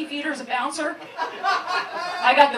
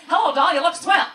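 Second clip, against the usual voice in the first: 1940s femme fatale, louder and higher; 3 semitones higher, 6 dB louder, faster than usual. Retold or imitated. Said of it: "the G P S sounds like a femme fatale".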